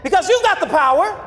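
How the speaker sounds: led declaration; preacher's declaration to repeat; repeat after me. Shown as a demonstration. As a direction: declare it for them to echo. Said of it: "Tell 'em".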